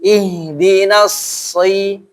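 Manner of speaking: Ihdinas si with a half-thick s, slow; lightly thick s. Shown as a demonstration. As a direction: say si slowly, only a little heavy. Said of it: "ada tebal tapi agak tipis saja".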